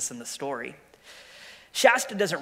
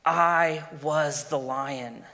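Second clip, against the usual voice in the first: slow, solemn lion voice; lion Aslan; 3 dB louder, much slower than usual. Acted. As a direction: speak slowly as the great lion. The lion reveals himself.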